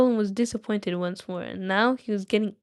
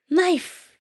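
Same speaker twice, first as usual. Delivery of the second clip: much higher, louder squeak of a guess; Gollum guess; 9 semitones higher, 4 dB louder than usual. Acted. Gollum finally guesses Bilbo's riddle, high and squeaky. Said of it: "my Gollum voice".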